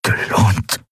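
slow, voiceless rasping question; ronco y sin aliento. A narrator's reading. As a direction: rasp it out with no breath left. Prisoner rasps before coughing fit.

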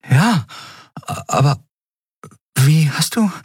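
stammering in surprise; high, stunned questioning; astonished. A narrator's reading. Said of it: "sah sie nur verblüfft an".

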